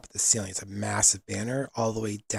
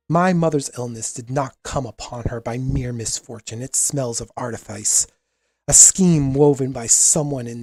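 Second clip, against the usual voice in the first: lightly voiced prince with steel behind it; defiant young prince; 4 dB louder than usual. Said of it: "voice is just ringing so clear, and it's youthful, it's edged with steel".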